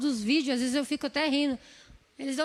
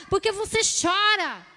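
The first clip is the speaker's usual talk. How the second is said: higher questioning plea; Jesus asking gently; 6 semitones higher, 4 dB louder than usual. Acted. Jesus asking the weeping woman why she cries, higher. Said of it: "Jesus tava ali pra falar".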